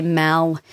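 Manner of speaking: "mal" said slowly with a South Australian vowel; South Australian pronunciation. Shown as a demonstration. Voice actor shows regional words, "mal" in South Australian style. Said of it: "South Australians ... will say".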